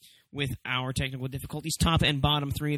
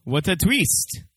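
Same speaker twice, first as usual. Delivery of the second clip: mock dumb voice; 3 semitones higher, 6 dB louder, slower than usual. Mock question in put-on voice.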